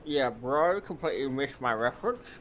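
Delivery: talking with chocolate in mouth; words round a bite of chocolate; mouth full. Real, not acted. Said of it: "I got chocolate in my mouth".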